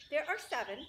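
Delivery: high, loud boast; the goose proudly counts her goslings. Acted. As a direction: announce it proudly.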